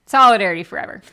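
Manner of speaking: loud rallying cry; fiery revolutionary speech. Pretend. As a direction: shout it like a union rally.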